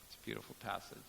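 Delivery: ordinary delivery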